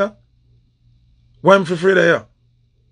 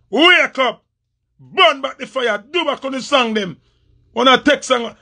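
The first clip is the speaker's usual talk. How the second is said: higher, urgent exhortation; pitched-up rallying cry at a rival; fired-up call; 5 semitones higher than usual. Real, not acted. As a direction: rouse him to fight back. Repeated call to action, raised pitch.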